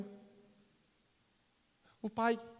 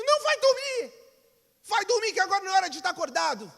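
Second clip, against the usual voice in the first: higher, louder, fast telling-off; firm scolding; 8 semitones higher, 5 dB louder than usual. Acted. Mother sending her son back to bed, firm and loud. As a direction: hurry him back to bed, stern.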